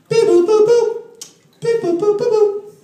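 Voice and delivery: high beep boop; beeping noises. Retold or imitated. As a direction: chirp like a machine. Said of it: "it goes like this".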